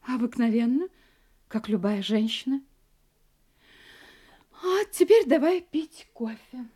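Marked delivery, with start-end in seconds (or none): 4.6-6.7 slow, breathy hush. Acted. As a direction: lull him with a whisper. Wife hushed, slow, offering coffee.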